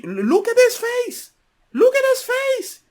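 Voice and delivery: high, loud, urgent pointing out; excited outburst. Real, not acted. Host urging co-host to look at the guest's angry face, loud and high. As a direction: loudly draw everyone to the face on screen.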